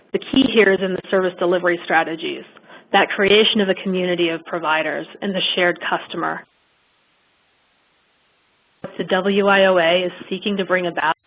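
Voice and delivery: breaking up on a bad connection; choppy cut off endings. Real, not acted. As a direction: audio dropping in and out. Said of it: "You're cutting out again".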